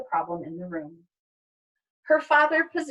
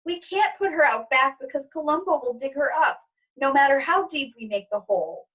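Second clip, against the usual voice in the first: tearful; 4 semitones higher than usual. Acted. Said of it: "Izzy continues to cry".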